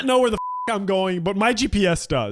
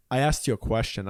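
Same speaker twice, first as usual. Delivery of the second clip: put-on gruff old man; 10 semitones lower, 4 dB quieter than usual. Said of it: "And he's like".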